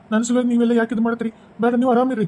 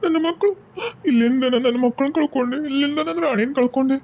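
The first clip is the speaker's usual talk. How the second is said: mourning lament. Acted. Widower mourns wife and children.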